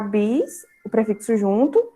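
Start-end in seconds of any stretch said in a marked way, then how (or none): 0.0-0.7 "bis" set apart as its own syllable; syllable division. Shown as a demonstration. Teacher dividing bisneto for pupils, syllable by syllable. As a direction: say "bis" drawn out, then pause. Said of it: "a separação vai ficar".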